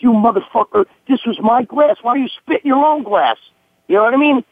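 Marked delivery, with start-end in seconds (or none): 0.0-3.4 raised pitch, retelling an angry confrontation; retold pissed-off outburst. Bouncer confronting the man who spat in his glass, indignant. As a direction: replay your indignation at being wronged. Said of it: "I was so pissed".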